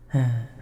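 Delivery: short falling sigh. Acted. Dragon whose listener can't read the coin, short sigh. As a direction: let out a quick audible sigh.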